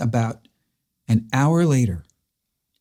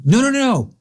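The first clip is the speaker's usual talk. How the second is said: much higher, hurried no no no of a flustered caller; frantic correction; 4 semitones higher than usual. Retold or imitated. Caller hastily retracting the death news, high and flustered. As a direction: rush to undo the mistake, high and flustered.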